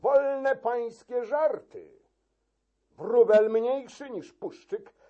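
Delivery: angry shout. Acted. Key-keeper defying the chamberlain, high angry shout. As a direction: rage back at the chamberlain. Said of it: "krzyknął".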